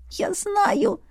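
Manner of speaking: high, soft, trembling I know; a shaky, high little I know. Acted. Heroine to Irvin, trembling, high and soft. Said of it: "голос дрожал".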